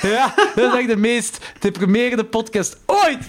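laughing. Real, not acted. Joking about depressing podcast.

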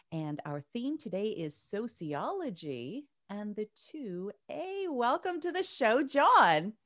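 talking with a mouth full of taffy; words round a sticky chew of taffy. Real, not acted. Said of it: "I shouldn't do the introduction while I'm chewing taffy".

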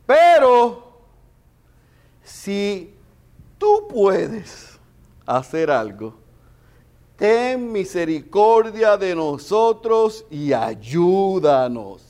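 loud, high, slow pleading; desperate plea. Retold or imitated. Father begs Jesus to help his son, loud slow plea. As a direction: beg for help with everything left.

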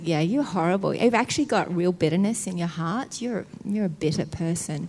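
low, softened accusing voice; condemning enemy. Acted. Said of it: "he's like".

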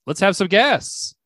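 light stage announcement, lifted pitch, drawn out; lightly voiced show host, slowed and lifted; hosts introducing guests. Hosts calling guests out to the audience, light announcer voice. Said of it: "then they say to the audience".

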